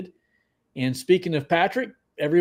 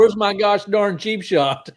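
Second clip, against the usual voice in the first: mock impatient viewer; 5 semitones higher, 4 dB louder than usual. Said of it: "B Williams says".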